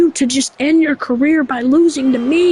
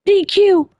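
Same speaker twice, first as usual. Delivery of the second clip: higher, incredulous question; hammed-up outrage at the disqualification; shocked disbelief; 6 semitones higher, slower than usual. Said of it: "Goldberg says".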